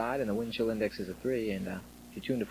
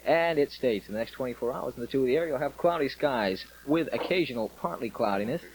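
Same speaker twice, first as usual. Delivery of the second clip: louder on-air weather read; upbeat military radio host; 3 dB louder than usual. Real, not acted.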